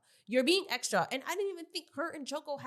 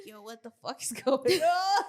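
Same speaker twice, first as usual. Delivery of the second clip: laughing yell; 5 dB louder than usual. Retold or imitated. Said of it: "I was screaming the whole time".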